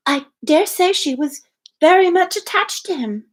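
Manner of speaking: high, wistful Harriet voice; sighing Harriet. A narrator's reading. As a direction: let it droop like a sigh. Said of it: "sighing again".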